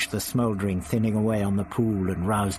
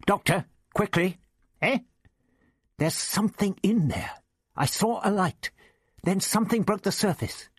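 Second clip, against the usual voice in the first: put-on raised, spluttering young teacher; the teacher Ian, outraged over his tie; indignant Ian; 9 semitones higher than usual. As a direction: Ian protests about his ruined tie. Ian calls the doctor.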